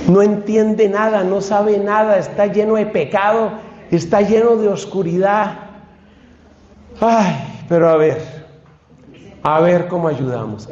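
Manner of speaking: Cristo sonriente. Pretend. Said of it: "Cristo se sonríe y dice".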